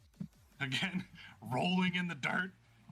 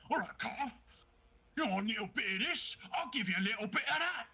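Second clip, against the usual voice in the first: higher, quick taunting; cocky challenge; 6 semitones higher, faster than usual. Acted. Kodlak taunts Cod before raging, quick and cocky. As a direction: taunt him, brisk and cocky. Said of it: "Kodlak's gonna go".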